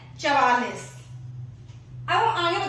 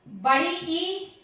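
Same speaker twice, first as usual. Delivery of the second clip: बड़ी ई said slowly with ई stretched; slow drawn ई; long vowel; much slower than usual. Shown as a demonstration. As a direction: drag out the ई. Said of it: "दीर्घ स्वर का देखो".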